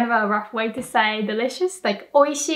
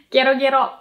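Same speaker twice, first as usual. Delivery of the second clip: frog croak; 2 semitones higher, 4 dB louder, much faster than usual. Shown as a demonstration. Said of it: "the sound frogs make".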